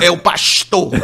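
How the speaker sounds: pastor said "paʃto" with a Carioca sh; light Rio accent, "pastor" as "paxtor". Retold or imitated. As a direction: sotaque carioca leve, "pastor" com chiado. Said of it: "Sotaque de carioca".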